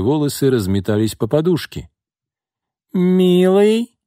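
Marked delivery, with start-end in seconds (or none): 2.9-4.0 high, loud seductive purr; femme fatale purr. A narrator's reading. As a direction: purr it like a temptress. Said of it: "промурлыкала Марго".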